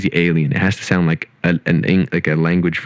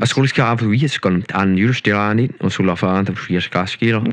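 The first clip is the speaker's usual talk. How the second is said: fake foreign language; 4 semitones higher than usual. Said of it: "best fake language you can make up".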